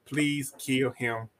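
imitating Eddie begging God, slow and pleading; hammed-up church prayer, slow; mock desperate prayer. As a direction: plead to God like a broken man, half laughing.

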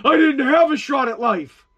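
lightly voiced self-pitying complainer; imitating someone blaming their upbringing; mock excuse-maker. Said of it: "If people stopped saying".

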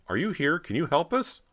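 high, loud pleading questions; frantic cry. A narrator's reading. Cody begs her sister for help, frantic high cry. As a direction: beg for an answer, pitch climbing. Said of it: "Cody cried frantically".

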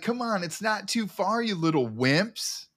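high-pitched mock yell; imitated yelling. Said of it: "he's yelling at the team".

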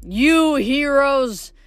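lightly voiced amused blacksmith god; amused Hephaestus. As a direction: drawl it out, half amused. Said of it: "Hephaestus actually laughed".

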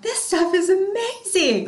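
high, slow gushing delight; imitating her pumped-up younger self. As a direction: gush about it like you just discovered gold. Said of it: "I was so pumped".

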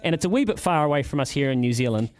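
upbeat radio roundup read; sponsored segment read. Acted. Host reading the sponsored sports guide to listeners, upbeat announcer style. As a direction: sell the weekend fixtures like an ad.

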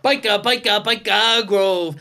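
comic Geordie accent. Shown as a demonstration. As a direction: say it in put-on Geordie. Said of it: "you need a phrase to get you in there".

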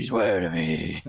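low, very slow trailer growl; deep movie trailer narrator; horror trailer voice. Retold or imitated. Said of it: "My trailer voice is good".

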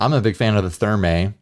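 wet mouth noises while talking; slurping. Real, not acted. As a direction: lip smacking between words. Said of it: "I'm making mouth noises again".

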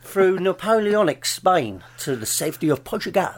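lightly put-on dubbed actor voice; a hint of a dubbed-over film hero. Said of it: "That's my dub voice".

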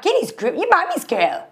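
mock coo at a big girl; imitated baby talk. Mocking the mother cooing at her fifth grader, baby talk. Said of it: "She does this, like, weird talk".

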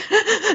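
sharp high gasp, imitating a sob; a retold catch of breath from crying, lightly done; mock crying gasp. Recalling crying on the phone to Dave Ramsey, a mock high gasp. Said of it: "that it was that kind of crying".

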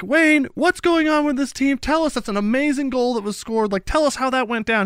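a hint of a post-match reporter; interviewer quote. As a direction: imitate a keen interviewer. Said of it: "they're like".

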